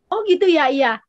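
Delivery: imitating a friend taken aback; retold surprise. Friend hearing of God's kingdom, mildly surprised. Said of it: "Eh, dia kaget".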